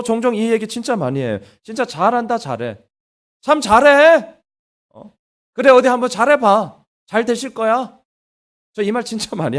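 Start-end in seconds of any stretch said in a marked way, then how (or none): 1.6-8.0 sarcastic parent. Retold or imitated. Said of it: "비꼬는 거예요".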